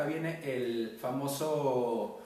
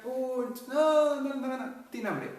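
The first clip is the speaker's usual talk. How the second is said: imitating mother; 10 semitones higher, 5 dB louder, slower than usual. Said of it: "Te escuchaba llorar y decía".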